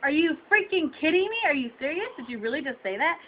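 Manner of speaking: incredulous, pitch up at the start; indignant disbelief. Real, not acted. Shopper reacting to the butcher's insult, indignant disbelief. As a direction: fire off offended questions in disbelief.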